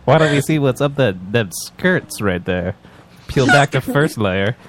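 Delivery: put-on slow old-timey transatlantic drawl; leering transatlantic accent. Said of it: "use my transatlantic ac-, accent".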